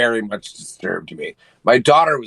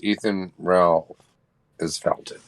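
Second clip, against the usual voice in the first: slow careful say; 4 semitones lower than usual. Shown as a demonstration. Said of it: "How do you say it?".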